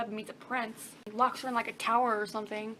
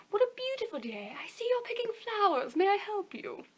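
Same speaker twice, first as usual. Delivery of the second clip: sweet-talking wolf; 8 semitones higher than usual. Acted. Wolf voiced in the story.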